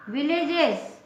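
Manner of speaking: विलेजेस as "vil-ej-ez" with a voiced ez ending; teaching pronunciation. Shown as a demonstration. Teacher demonstrating a plural ending, said carefully. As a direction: model विलेजेस clearly for pupils. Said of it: "E S के पहले ज उच्चारण वाला consonant है".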